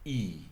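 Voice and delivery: "I" held long and level; long i sound. Shown as a demonstration. Teacher models the long "I" for her class. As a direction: stretch the "I" slowly instead of clipping it. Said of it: "mais on dit".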